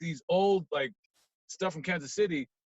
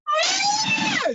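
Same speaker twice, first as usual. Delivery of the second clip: sudden high shrieking scream, much louder; imitated scream; 8 dB louder than usual. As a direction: let out the crowd's scream. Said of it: "just people started screaming".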